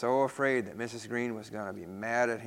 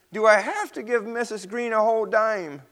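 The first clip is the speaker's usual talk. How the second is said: dismayed; 8 semitones higher, 4 dB louder than usual. Acted. Peter dismayed at the price.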